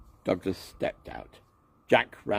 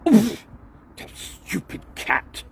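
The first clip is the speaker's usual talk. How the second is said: annoyed grunt; 13 semitones higher, 6 dB louder, slower than usual. A narrator's reading. Douglas falls over cat.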